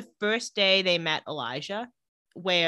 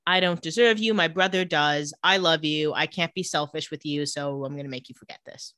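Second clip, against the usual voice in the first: tender confession; 4 semitones lower than usual. Retold or imitated. Acted romantic confession from flashback.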